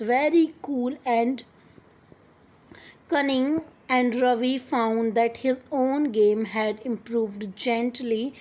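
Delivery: slow, careful read-aloud of the English text; story reading. Acted. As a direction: read each word out slowly for the class. (धीमी आवाज़ में कहानी पढ़ना)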